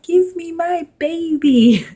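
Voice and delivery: high, slow desperate demand; urgent plea. Retold or imitated. New mother demanding her baby, high and drawn out. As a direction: reach out and beg for the baby.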